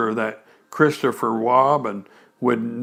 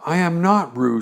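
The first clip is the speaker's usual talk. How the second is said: loudly; 4 semitones higher than usual. Acted. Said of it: "said Piglet loudly".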